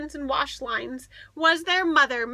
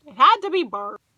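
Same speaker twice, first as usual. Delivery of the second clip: convincing himself; 8 dB louder, faster than usual. A narrator's reading. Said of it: "he said".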